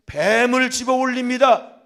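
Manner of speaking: slow, loud, weighty words; loud proclamation. Acted. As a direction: proclaim each word slowly and loudly. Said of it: "preaching proclamation". (천천히 크게 선포하듯)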